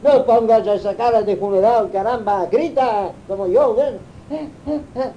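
loud, fast, high hollering; mock shout. Cayetano to the priest, urging him to shout loudly. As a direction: bellow it like a rowdy priest.

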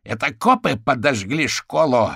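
loud furious shout; roaring. A narrator's reading. Caterpillar roaring accusations at Abby, loud. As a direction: bellow into the phone. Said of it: "взревел в трубку Гусеница".

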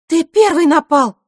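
high, loud protest; indignant retort. A narrator's reading. Girl objecting to her accuser, indignant retort. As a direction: throw the accusation back, voice leaping up.

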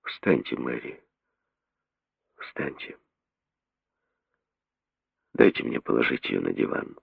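soft and slow, dropping to a whisper; slow, quiet. A narrator's reading. The doctor telling Mary to rise, slow and hushed. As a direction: break the news gently, slowly. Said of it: "сказал медленно".

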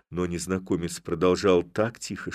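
ordinary delivery

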